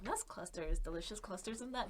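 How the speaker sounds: soft imitated sleep whisper; imitating a friend whispering at night; mock whisper. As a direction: murmur it like a voice in your dreams. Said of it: "He just whispers it in my sleep".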